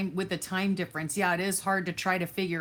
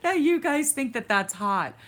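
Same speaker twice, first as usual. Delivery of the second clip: high-pitched, laughter-filled teasing; laughing at them; 7 semitones higher, 4 dB louder than usual. Real, not acted. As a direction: burst out laughing while speaking. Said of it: "I'm laughing at your seventy-seven degrees".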